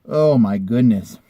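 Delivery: sighing exasperation; exasperated. Real, not acted. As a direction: drag it out in disbelief. Exasperated at seller.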